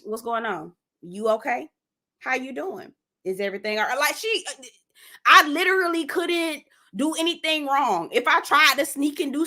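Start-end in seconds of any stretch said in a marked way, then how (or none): 0.0-4.0 lightly voiced grandma, softer; checking-up grandma. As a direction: imitate a watchful grandma's quiet questioning. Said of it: "and my grandma".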